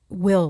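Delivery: will given its own weight; stress on will. Shown as a demonstration. Passing on Spirit's emphasis to the viewers, stressed will. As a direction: lean into will, like willpower. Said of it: "they emphasize the word will".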